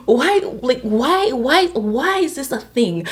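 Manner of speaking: hammed-up bewilderment; retold confusion. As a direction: keep asking why, drawing out the last ones. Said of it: "I was just so confused".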